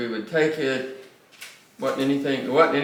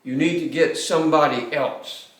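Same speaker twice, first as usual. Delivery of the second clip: emphatic refusal; 2 semitones higher than usual. Retold or imitated. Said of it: "I was emphatic".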